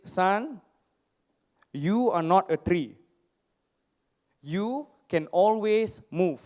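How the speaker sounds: a light hint of his father's Indian accent. Father comforts his crying son, light Indian accent. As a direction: voice dad with a mild Indian accent, slow on the last line. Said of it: "my dad has this crazy Indian accent".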